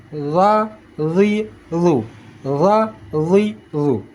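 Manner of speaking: heavy emphatic TH in "Za, zi, zu"; thick za. Shown as a demonstration. Teacher showing the thick letter, "Za, zi, zu" darkened. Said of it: "Kalau ingin tebal".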